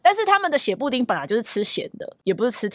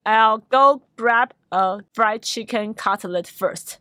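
slow model sentence; slower than usual. Shown as a demonstration. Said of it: "你就说".

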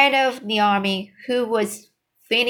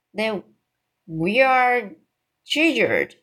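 crying out; 2 semitones higher than usual. Acted. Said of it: "cried the army general".

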